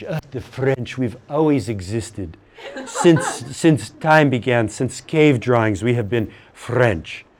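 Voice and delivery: hammed-up smug French voice, slow and laughing; mock the French claiming they always existed, lightly; mock French boast. Teacher mocking French students as smug boasters. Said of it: "you think that the French have always been French".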